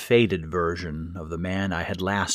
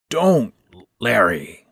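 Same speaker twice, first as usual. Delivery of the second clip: calmer plea; 3 semitones higher, 7 dB louder, slower than usual. A narrator's reading. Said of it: "more calmly this time after the coughing".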